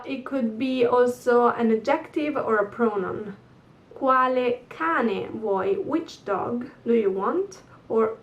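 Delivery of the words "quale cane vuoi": slow model phrase. Shown as a demonstration. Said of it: "teacher models a phrase".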